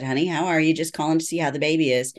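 sweet mom checking in; mild mock mother on the phone; a touch of mother's voice.

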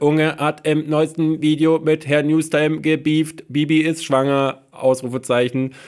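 langsame, abgehackte Roboterstimme; Computerstimme. Pretend. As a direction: wie eine alte Sprachausgabe vorlesen. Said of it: "so eine Computerstimme sagt". (leicht gespielte Computerstimme)

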